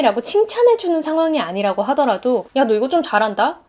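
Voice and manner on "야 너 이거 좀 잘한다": tossed off lightly, stress on 좀 with a rise; casual praise, 좀 lifted at the end like a throwaway; offhand remark. Retold or imitated. A friend tosses off casual praise, saying 좀 lightly with a rise. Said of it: "별거 아니게 툭 던졌던".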